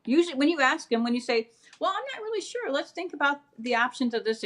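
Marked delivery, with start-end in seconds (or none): 1.8-4.4 tactful hedging. Retold or imitated. Parent talking a request through instead of refusing, tactfully hedging. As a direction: play gently unsure, in a raised voice. Voicing a tactful noncommittal reply.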